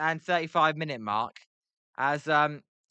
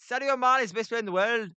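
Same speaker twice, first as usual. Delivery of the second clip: fast, raised Scouse try that slips into Irish; Irish-sounding Scouse attempt; 6 semitones higher, faster than usual. Failed Scouse for the chat, fast accent slipping Irish. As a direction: rattle off the Liverpool line, accent drifting Irish. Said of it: "that's Irish".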